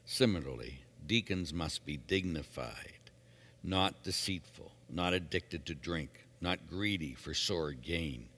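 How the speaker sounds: measured, solemn liturgical reading; scripture reading. Acted. Lector reads the epistle on deacons to the congregation, measured scripture reading. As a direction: read it out evenly, phrase by phrase.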